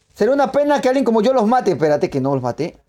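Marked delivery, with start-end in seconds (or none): 0.1-1.7 mock villain taunt. Taunting players in game.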